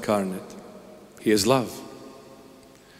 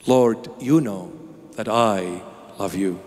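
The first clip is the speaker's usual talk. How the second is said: tender confession; 5 semitones lower than usual. Acted. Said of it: "This is how he said it".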